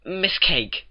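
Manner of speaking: lightly voiced Twilight pleading reason. A narrator's reading.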